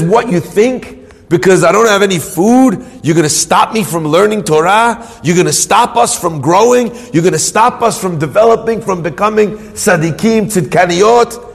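mounting defiant rhetorical questions; indignant challenge. Retold or imitated. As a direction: throw each question at an opponent, pressing harder. Husband challenges Satan, refusing defeat.

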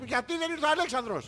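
mock shouted line. Co-host correcting it to her yelling at Giorgos, mock yell. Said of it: "στο φωνάζει".

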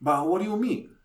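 put-on old Italian guy asking the waiter why he doesn't speak Italian; old Italian man. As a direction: play the confused old Italian diner. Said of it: "He's like".

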